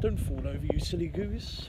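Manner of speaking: posh teasing; posh accent. Acted. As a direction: tease like a posh gent. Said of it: "speaking like a posh twat".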